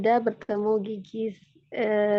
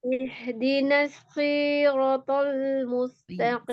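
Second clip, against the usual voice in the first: recitation on request. Shown as a demonstration. Student retrying the verse after correction, careful recitation. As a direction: recite carefully, stretching each long vowel. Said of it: "ulangin cara penyebutan ihdinas sirotol".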